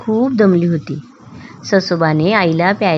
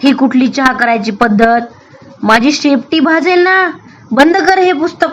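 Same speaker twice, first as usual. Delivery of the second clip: rising higher, louder indignant scold; angry scolding; 5 semitones higher, 3 dB louder than usual. Acted. Rabbit scolding his friend, higher and louder angry. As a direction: snap at him to shut the book. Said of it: "रागाने फणकारत ससोबा म्हणाला".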